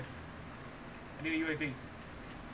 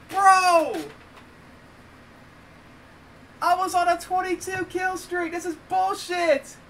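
higher-pitched, aggrieved complaint; mad; 4 semitones higher than usual. Real, not acted. Player laments the lost twenty-two kill streak, mad. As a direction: protest the unfairness, still really angry. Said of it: "I'm so mad right now".

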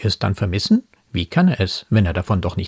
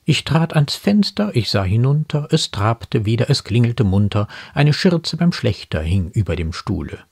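animated poem quotation; poem quoted in commentary; 3 semitones higher than usual. Acted. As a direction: run the lines of verse together briskly.

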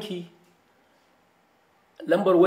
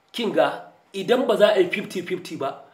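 usual speaking voice

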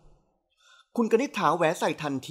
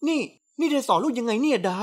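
exasperated outburst; 6 semitones higher than usual. A narrator's reading. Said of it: "หันมาโวยวายใส่แม่แทน".

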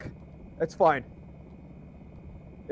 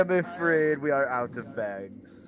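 mock shopkeeper; 3 semitones lower, 4 dB louder than usual. Shopkeeper bit again.

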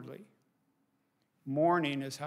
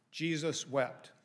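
"Jesus wept" said slowly, word by word; slow recitation; slower than usual. Shown as a demonstration. Teaching the congregation a verse, slow and deliberate. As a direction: give them the verse slowly to memorize. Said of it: "we can all memorize a verse".

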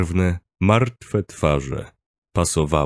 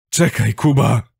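higher-pitched urgent plea; pleading; 4 semitones higher, 3 dB louder than usual. A narrator's reading. Narrator trying to stop Kuba, pleading call. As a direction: call after him to stop. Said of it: "prosiłem, próbując zatrzymać osiłka".

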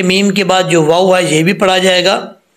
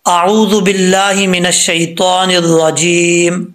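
recitation; slower than usual. Shown as a demonstration. Opening recitation before Quran lesson.

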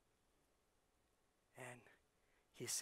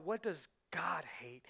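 whisper; 4 dB quieter than usual. Real, not acted. Rhetorical question, dropped to whisper.

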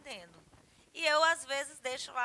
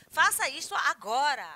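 loud, higher-pitched command; ordem; 4 semitones higher, 13 dB louder than usual. Shown as a demonstration. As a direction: give a forceful order. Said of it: "Então, ordem". (ordem em voz alta)

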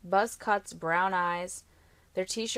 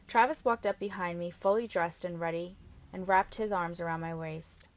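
ordinary delivery, nothing marked

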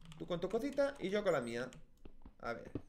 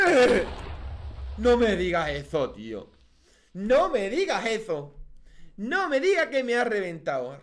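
loud, higher outburst at dying; angry shout; 5 semitones higher, 10 dB louder than usual. Real, not acted. Gamer yelling at the mob that just killed him. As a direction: yell it out, furious at the game.

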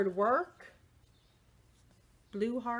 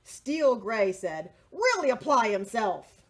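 louder firm voices; louder stern advice; stern crayons; 6 dB louder than usual. Acted. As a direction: lay down the law firmly. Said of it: "Army Green said".

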